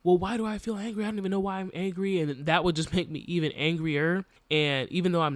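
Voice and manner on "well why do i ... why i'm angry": exasperated, pitched-up questioning; baffled at her own anger, voice rising; frustrated. Retold or imitated. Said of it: "And I'm just like".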